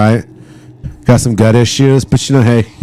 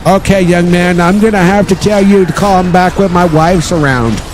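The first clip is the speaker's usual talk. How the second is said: high-pitched, put-on elderly man; old man voice; 9 semitones higher than usual. Homeowner putting off a salesman, mock old man voice. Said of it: "maybe I'll do old man voice".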